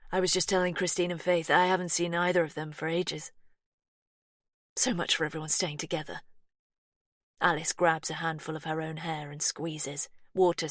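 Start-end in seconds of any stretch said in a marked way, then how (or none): 0.1-6.2 lightly voiced American woman, a bit anxious; light American twang.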